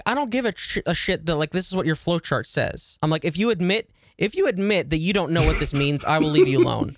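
imitating an entitled customer laying down terms; customer service nightmare. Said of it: "you are a customer service nightmare".

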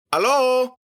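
loud high holler; big drawn-out calling yell. A narrator's reading. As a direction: yell it out high, for the whole street to hear.

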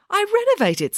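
high-pitched, gleeful announcement; happy. A narrator's reading. Loretta showing April the redone room, happy and proud. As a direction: sing out the news, delighted. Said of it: "said Loretta happily".

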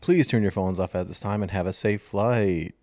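pilot voice. Shown as a demonstration. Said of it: "Can you do it in a pilot voice".

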